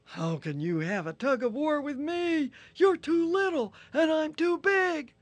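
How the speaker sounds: loud, high, indignant rhino; offended Rhino. Acted. Rhino insisting he is strong, loud and indignant. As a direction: huff and protest, loud.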